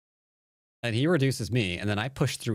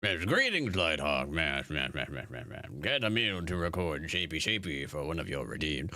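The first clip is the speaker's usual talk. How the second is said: 1 lightly voiced character; 4 semitones lower than usual. Voicing character greeting chatter.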